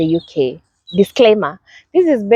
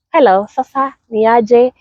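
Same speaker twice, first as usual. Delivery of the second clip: cheerful greeting; 4 semitones higher than usual. Retold or imitated. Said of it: "there is that happiness when you're greeting".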